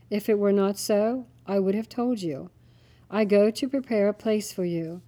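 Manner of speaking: measured, solemn Bible reading; scripture reading. Acted. Father reads John to family, solemn reading. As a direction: read it like holy words.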